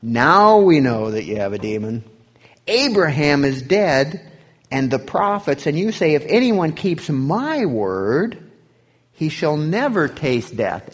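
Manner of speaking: accusing Jews. Acted. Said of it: "Then the Jews said to him".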